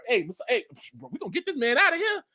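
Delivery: ordinary talk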